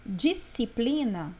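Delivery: disciplina slowly, with a single S sound for SC; SC as one S. Shown as a demonstration. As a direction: draw out disciplina with no separate C. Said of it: "eu não escutei o som do C". (disciplina devagar, sem som de C)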